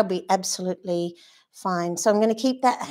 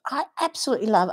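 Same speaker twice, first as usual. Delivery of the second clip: put-on American accent, pitched a little higher; 5 semitones higher, much faster than usual. Painting teacher gushing over brush strokes, in an American accent. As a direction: slip into a quick, playful American accent.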